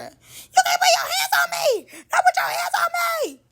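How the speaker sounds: high-pitched mock shouting; Ferrari. Mimicking a castmate upset over hands put on her, high mock wail. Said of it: "In my Ferrari verse, voice".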